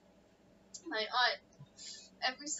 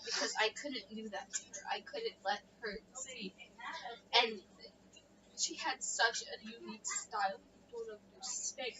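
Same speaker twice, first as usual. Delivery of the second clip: tearful; 2 semitones lower than usual. Real, not acted. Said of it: "Stop crying".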